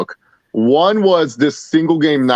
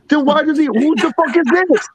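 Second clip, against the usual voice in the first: high-pitched baffled demand; retold incredulity; 12 semitones higher than usual. Confused friend questioning the patch, incredulous.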